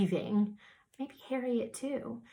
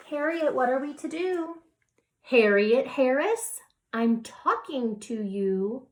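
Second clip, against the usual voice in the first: louder, slowing, stern mother; exasperated mother; 4 semitones higher, 6 dB louder than usual. Acted. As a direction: build to a firm, loud scolding by full name. Mother's patience runs out in story.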